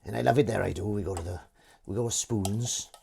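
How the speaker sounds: put-on Welsh valleys local; Merthyr Welsh accent. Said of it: "I'm from Merthyr".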